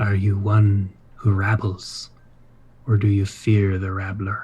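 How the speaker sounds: soft purring voice. Voicing a creature warming its paws at a fire: purring voice. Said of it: "And in kind of a purr".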